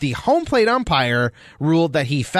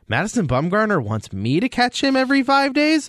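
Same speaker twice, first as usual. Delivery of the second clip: excited rookie; 6 semitones higher than usual. Retold or imitated. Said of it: "Jose Herrera's like".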